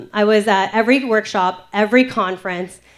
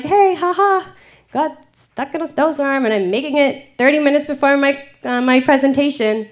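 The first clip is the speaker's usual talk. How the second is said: bright forced cheer, higher; fake cheerful; 4 semitones higher than usual. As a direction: put on a breezy happy front. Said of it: "I sent this Snapchat".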